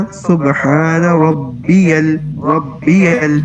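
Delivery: ربی kept short, slow and even; short rabbi. Shown as a demonstration. Teacher correcting the student's long ربی. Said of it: "ذرا کلکلہ کو prominent کریں".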